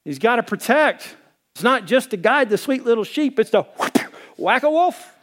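proud and amused, defending his flock; fired-up retort. Retold or imitated. Defending the church to his friend, fired-up and laughing. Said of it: "I'm like".

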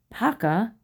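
put-on a bright, high call of the boy's name; exclaiming. A narrator's reading. Uncle catching his nephew, exclaiming Paka. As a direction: call out Paka in happy surprise. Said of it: "Chakotay exclaims".

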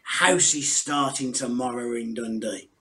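slurred Canadian drawl, slowed down; slow, boozy Canadian voice; drunken Canadian accent. Retold or imitated. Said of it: "in a very drunken Canadian accent".

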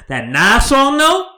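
slow, high, drawn-out relish; savoring. Real, not acted. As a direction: stretch it out with delight. Savoring the highlight.

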